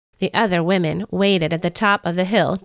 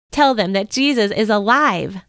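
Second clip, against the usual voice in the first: urging angel. Acted. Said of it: "the angel urged".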